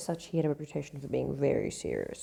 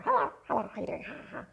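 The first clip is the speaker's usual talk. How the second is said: high squawky parrot imitation; 7 semitones higher, faster than usual. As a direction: mimic a chattering parrot. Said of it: "laughing like a parrot".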